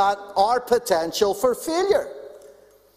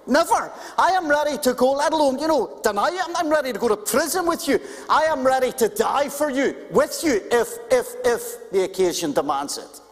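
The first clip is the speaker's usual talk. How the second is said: insistent vow, pitched up and quick; emphatic; 3 semitones higher than usual. Retold or imitated. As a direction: play Peter swearing loyalty hard. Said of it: "He said it emphatically".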